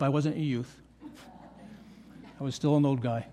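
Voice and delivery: ordinary talk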